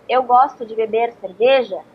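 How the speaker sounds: native Brazilian Portuguese with full vowels; Brazilian rhythm. Shown as a demonstration. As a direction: Brazilian Portuguese, syllables rising and falling. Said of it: "if a Brazilian says".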